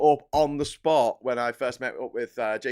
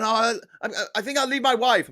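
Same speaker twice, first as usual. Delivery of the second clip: higher, goofy voice of a man leaving his wife; pretend naive husband; 8 semitones higher, 4 dB louder than usual. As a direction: play it dopey and pleased with yourself. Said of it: "it's like me going".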